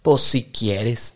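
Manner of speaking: sulky, grudging reply, slowing at the end; mock passive-aggressive sulk. Shown as a demonstration. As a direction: give in with a put-upon sigh. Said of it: "en esta actitud pasivo-agresiva".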